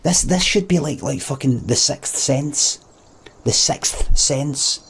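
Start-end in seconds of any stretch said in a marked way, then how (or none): 1.7-4.8 slow, deliberate. Real, not acted. Likens it to film's twist reveal.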